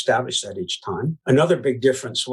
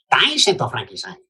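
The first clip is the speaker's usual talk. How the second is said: Venetian accent. Shown as a demonstration. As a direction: play up a stereotyped Venetian accent for laughs. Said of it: "Venetian says".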